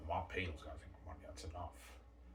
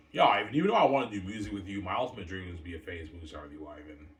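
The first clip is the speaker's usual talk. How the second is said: excited friend voice; 11 dB louder than usual. Pretend. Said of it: "that's V J's dream".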